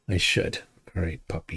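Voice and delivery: breathy whispered repeat. Real, not acted. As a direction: whisper it to yourself. Repeats the line to himself.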